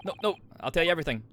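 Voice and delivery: fast, high, hurried surrender; panicked pleading. Acted. Prisoner giving in to a sailor's threat, panicked. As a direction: blurt it out in a mock panic.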